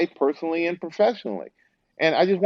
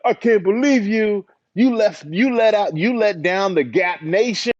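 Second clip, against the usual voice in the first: high-pitched imitation of an indignant fan; mock outraged fan; 8 semitones higher, 3 dB louder than usual. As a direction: play up the betrayed fan's complaint, pitched high. Voices upset fans accusing him.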